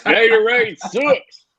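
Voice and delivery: high, slow hick voice rising at the end; Water Boy impression. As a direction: drawl it slowly like the dim country boy. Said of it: "laughing uncontrollably about the Gatorade comment".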